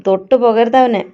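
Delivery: acted protective anger, punched out; sharp warning. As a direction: warn him off with force. Nidhi warns man off Nikesh.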